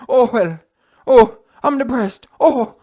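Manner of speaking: loud, drawn-out hammed-up moping groan; mock depressed moan. Mocking Fury's depression talk, loud hammed-up moan. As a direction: ham up a miserable sigh. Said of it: "What was Fury saying?".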